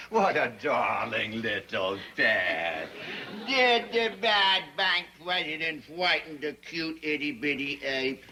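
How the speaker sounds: slow, doting pet voice; cooing baby talk. Acted. Banker fawning over the girl's pet ape, cooing. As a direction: draw it out as if babying a tiny creature.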